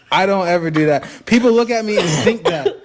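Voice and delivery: laughing denial. Real, not acted. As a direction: chuckle through the protest. Laughing protest.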